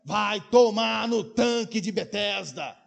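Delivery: laughing mock curse.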